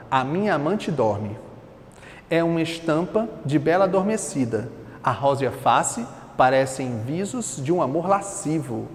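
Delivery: slow, deliberate verse reading with pauses; poetry recitation. Acted. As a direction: recite line by line, unhurried. Reads poem aloud.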